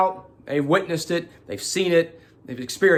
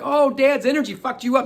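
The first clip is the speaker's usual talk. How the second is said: teasing laugh; 12 semitones higher, 6 dB louder than usual. Retold or imitated. Teasing brother, both laughing.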